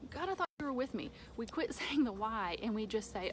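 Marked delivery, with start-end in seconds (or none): 0.1-1.1 higher, fast exasperated plea to God. Retold or imitated. Someone venting hardship to God, higher and fast. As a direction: rattle it off like a frustrated believer. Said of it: "feel like".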